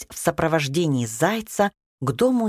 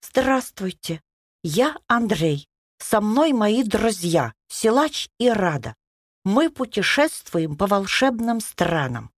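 polite tone; 4 semitones higher than usual. Acted. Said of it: "представился Андрей вежливым тоном".

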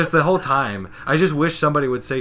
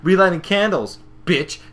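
raised voice building to a fast yell; gloating outburst; 6 semitones higher, 11 dB louder than usual. Retold or imitated. Spike crowing at whoever knocked him over, gloating outburst. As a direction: start high and punchy, end shouting.

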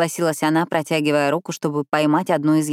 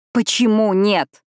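slow, higher, drawn-out plea; moaning; 4 semitones higher, 3 dB louder, slower than usual. A narrator's reading. Ravi losing his last hope, moaning. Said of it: "простонал Рави".

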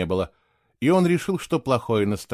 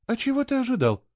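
conciliatory; 12 semitones higher than usual. A narrator's reading. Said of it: "примирительно спросила Кейла".

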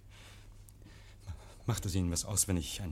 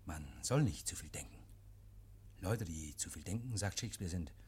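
geflüstert; 7 semitones lower, 10 dB quieter than usual. Acted. Oak raunt dem Inspektor zu.

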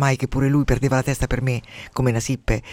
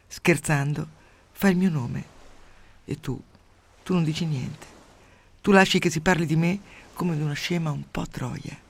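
mournful recitation. Acted. Lover's lament recital.

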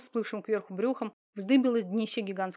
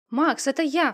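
loud, higher joyful cry; 5 semitones higher, 8 dB louder, slower than usual. A narrator's reading. Victoria cries out to her brother Max, loud and overjoyed. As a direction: burst out as the brother answers. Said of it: "вскричала она".

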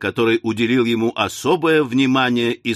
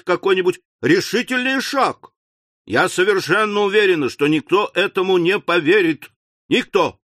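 indignant scolding; 3 semitones higher than usual. Acted. Wife scolding husband.

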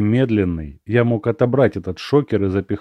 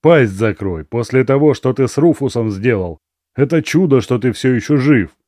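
loud threatening snarl; angry guard; 3 semitones higher, 5 dB louder than usual. Acted. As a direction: threaten him, loud and hard.

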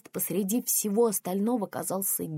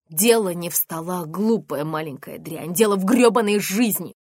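loud furious shout, building to a scream; furious yell; 8 dB louder than usual. Acted. Mother raging at her daughter over wiping tables.

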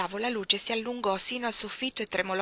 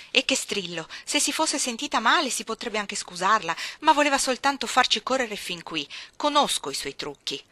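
louder, scolding and rising; indignant; 3 semitones higher, 6 dB louder than usual. Acted. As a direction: rant about the child's tricks. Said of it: "dichiarò Abbott indignata". (Abbott indignata rimprovera a voce alta)

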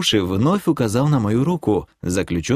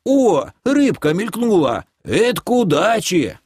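старик радуется примете; 10 semitones higher than usual. Acted.

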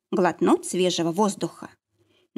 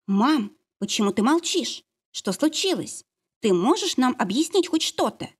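louder question; 4 semitones higher than usual. Acted. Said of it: "снова громко спросила Полика".

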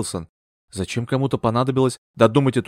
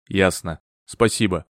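dry; 5 semitones lower, slower than usual. A narrator's reading. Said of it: "сухо произнёс мистер Бертрам".

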